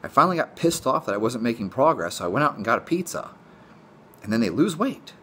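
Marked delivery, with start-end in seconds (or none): 0.0-3.3 exasperated disbelief. Retold or imitated. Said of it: "It's like".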